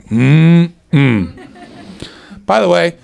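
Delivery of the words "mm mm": loud appreciative mm-mm; imitated admiring hum. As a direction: hum like an audience member admiring someone. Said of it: "every woman in here is just going".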